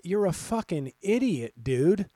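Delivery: half-acted angry jab; mock insult. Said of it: "And it's like".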